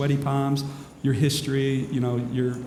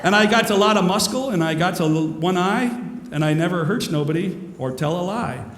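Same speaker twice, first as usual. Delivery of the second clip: higher, louder cartoon sailor voice; Popeye the Sailor Man; 4 semitones higher, 3 dB louder than usual. Speaker quotes a cartoon sailor to the audience, hammed-up sailor voice. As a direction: ham it up like the cartoon sailor, then sing. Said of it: "I'm Popeye the Sailor Man".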